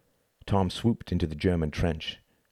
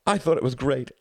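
put-on higher-pitched boy, audibly grinning; grinning admiration; 8 semitones higher than usual. A narrator's reading. German general admires the enemy's feat, grinning. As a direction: say it through a delighted grin. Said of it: "grinned one of the German generals".

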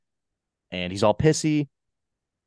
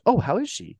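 higher-pitched innocent question; imitating genuine interest; 10 semitones higher than usual. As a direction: ask it as if sincerely curious, pitched up. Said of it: "for a second genuinely asks about it".

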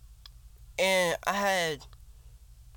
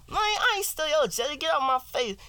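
higher, louder defensive denial; higher accused guy; 12 semitones higher, 5 dB louder than usual. Acted. Acting out a skit, accused friend denying stealing jelly loudly. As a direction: deny it like a wrongly accused friend. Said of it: "I can be an actor right now".

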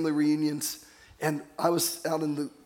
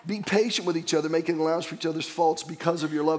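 a touch louder, with a laugh; louder reread; 3 dB louder than usual. Shown as a demonstration. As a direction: give the verse more volume the second time. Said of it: "that got a little less volume".

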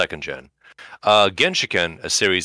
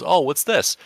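put-on bored girlfriend; 9 semitones higher, slower than usual. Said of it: "And she goes".

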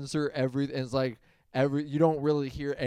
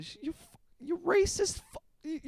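censored mob rant. Retold or imitated. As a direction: sputter it like an edited-for-TV gangster. Quoting the dubbed sketch.

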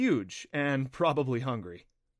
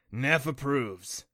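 slow creature voice; 3 dB louder, much slower than usual. Acted. Kelpie speaking of himself.

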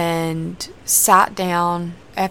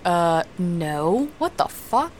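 put-on shocked kid; slower than usual. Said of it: "And I was like".

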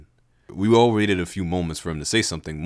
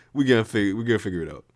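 Levi voice; 3 semitones higher, much faster than usual. Acted. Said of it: "Levi is".

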